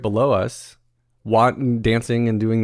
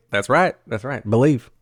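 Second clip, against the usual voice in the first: bad folksy Southern coach impression; hammed-up imitation of a TV coach; horrible Ted Lasso. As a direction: attempt a Southern TV coach accent, badly. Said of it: "That was a horrible Ted Lasso accent".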